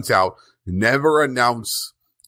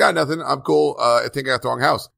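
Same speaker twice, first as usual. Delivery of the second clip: higher, nervous brush-off, hurrying at the end; nervous Tim excuse; 6 semitones higher, faster than usual. Retold or imitated. Caught guy brushing off the cops, a mock nervous voice. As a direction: act innocent and slip away. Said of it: "He's like".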